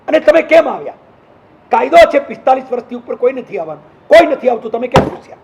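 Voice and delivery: mock telling-off, pressing the questions; retold scolding. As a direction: take him to task for breaking the rule. Retells scolding an over-age attendee.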